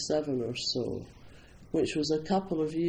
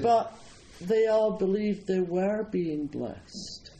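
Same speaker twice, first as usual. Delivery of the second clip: higher "But", then slow, drawn-out "they all believed they were being blessed"; emphatic retort; 5 semitones higher, slower than usual. Retold or imitated. Speaker answering an objector, slow emphatic retort.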